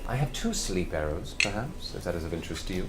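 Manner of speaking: courteous elven shopkeeper. Acted. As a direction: make a quiet, polite offer as an elf merchant. Game master plays elven shopkeeper.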